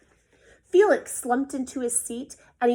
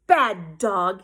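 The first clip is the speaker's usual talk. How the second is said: near scold; 3 semitones lower, 8 dB louder than usual. A narrator's reading. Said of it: "he almost scolded".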